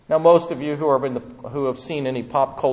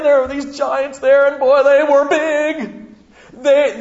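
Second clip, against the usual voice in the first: starting as an excited report, climbing much higher into a panicked, whiny wail; hammed-up cowardly scouts building from bragging about grapes to begging to go home, high and loud by the end; mock terror, voice rising far above normal as the fear takes over; frightened spies; 10 semitones higher, 3 dB louder than usual. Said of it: "they said to them".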